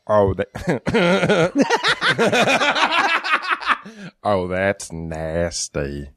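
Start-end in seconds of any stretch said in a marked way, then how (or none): 1.6-4.2 long falling high laugh. Real, not acted. Listener cracking up at the story, long high laugh. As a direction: burst into a real laugh that tumbles down.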